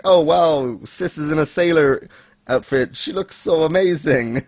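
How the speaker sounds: awestruck sister. Acted.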